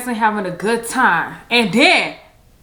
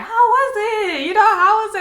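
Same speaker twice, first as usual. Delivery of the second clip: much higher, sing-song questioning; mock adult voice; 12 semitones higher, faster than usual. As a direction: put on the eager grown-ups asking. Adults asking next morning.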